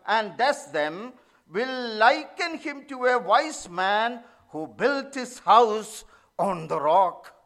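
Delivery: slow, solemn reading of the verse; scripture reading. Acted. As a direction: read the verse with weight. Reads the verse again.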